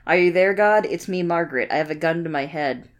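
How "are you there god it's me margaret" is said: lightly voiced girl praying; earnest little prayer, lightly voiced; Margaret praying. Reading Margaret's prayer aloud.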